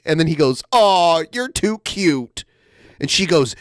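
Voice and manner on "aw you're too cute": higher, drawn-out imitation of flirting; mock gushing. Podcaster reading out a streamer's flirty messages, mock gushing. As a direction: coo it in mock affection.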